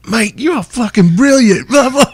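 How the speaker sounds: imitating a singer's British praise; British accent. The singer quoted, British singer.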